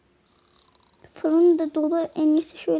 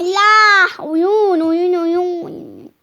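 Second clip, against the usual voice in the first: excited shout; 2 semitones higher, 7 dB louder, much slower than usual. Pretend. Calling out about playing.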